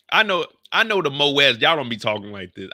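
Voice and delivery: loud, stern correction; a loud scolding; firm and loud. Real, not acted. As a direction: tell them off loudly. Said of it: "scolding the viewers".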